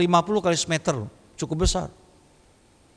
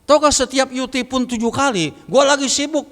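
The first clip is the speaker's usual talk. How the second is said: high-pitched mock exasperation; imitated irritated phone scolding; retold angry voice; 5 semitones higher than usual. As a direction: act out a busy friend telling off the caller. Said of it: "tapi nadanya marah".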